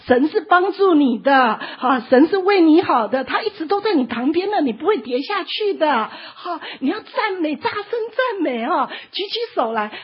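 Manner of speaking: loud, high pleading shout; loud calling. Retold or imitated. Servant shouting encouragement to the man below. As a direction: shout down that God is helping. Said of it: "他就这样一直跟他喊".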